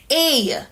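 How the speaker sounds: A as a drawn-out "ay"; accented E sound. Shown as a demonstration. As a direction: say A long, as in "day". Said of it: "is pronounced as".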